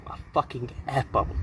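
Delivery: quick muttered aside; muttered under breath. Acted. Muttered aside about penguins.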